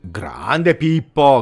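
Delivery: slow, stretched praise; drawn-out cheer. Real, not acted. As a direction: savour the name. Cheering player's cross.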